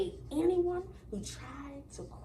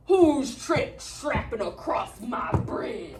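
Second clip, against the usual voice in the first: slow, louder troll growl; 3 semitones lower, 3 dB louder, slower than usual. Acted. Troll challenging the little goat, slow and menacing. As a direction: menace it slowly from under the bridge.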